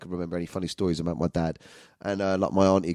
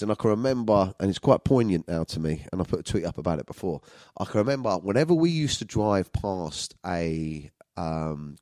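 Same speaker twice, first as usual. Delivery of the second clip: usual speaking voice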